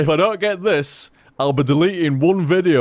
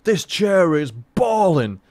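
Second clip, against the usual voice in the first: a hammed-up cat gushing over its chair; mock cat voice, slowed right down at the end; voicing the cat; 2 semitones higher, slower than usual. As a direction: give the cat a silly, blissed-out voice, slow on the last line. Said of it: "Love it when cats rub".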